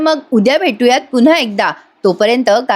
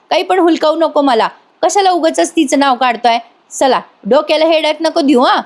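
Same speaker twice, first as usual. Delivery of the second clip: higher-pitched mock annoyance; defiant dismissal; 5 semitones higher than usual. Girl refusing to be fooled by Yash, defiant. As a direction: brush him off, acted and peeved.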